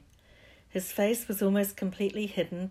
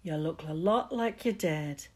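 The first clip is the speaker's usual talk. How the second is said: warm giant. Acted. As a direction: ease into a gentle hush. Giant talks to Harry gently.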